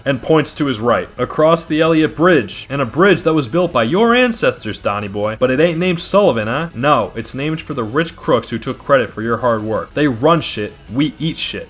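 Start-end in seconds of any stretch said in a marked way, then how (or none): 1.2-11.7 raised, higher, fired-up gang boss pleading his case; rally the rival crews, voice climbing high; heated mobster speech. Acted. Oz rallying rival gang leaders, higher and fired up.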